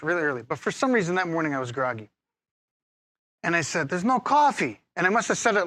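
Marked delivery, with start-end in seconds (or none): 3.9-4.8 bitter. Retold or imitated. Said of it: "like, bitterly".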